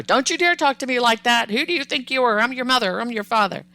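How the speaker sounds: hammed-up scolding, no full shout; mock yelling parent. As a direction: act out a mild parental telling-off. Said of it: "Yelling at them".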